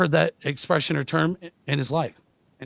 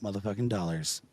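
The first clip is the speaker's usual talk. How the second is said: show promo. Acted. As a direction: plug the Friday show.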